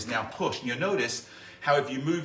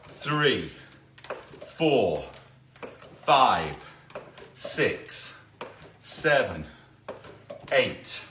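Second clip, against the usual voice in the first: counting reps aloud; 3 semitones lower, much slower than usual. Real, not acted. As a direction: call each rep out to the class. Coach calls out reps to class.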